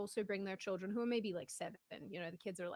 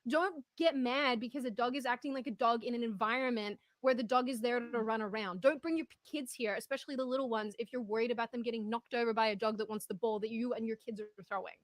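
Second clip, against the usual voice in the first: angry rant; 3 semitones higher, 7 dB louder than usual. Retold or imitated. Ranting to Jeremy on the phone about the lady, furious and loud. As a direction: vent your outrage to your partner, full volume. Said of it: "this is why I called Jeremy to rant".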